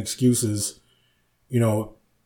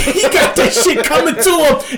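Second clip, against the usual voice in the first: high, loud words through laughter; laughing retelling; 5 dB louder than usual. Retold or imitated. Retelling old man's rant to co-host, laughing. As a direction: crack up while imitating the old man.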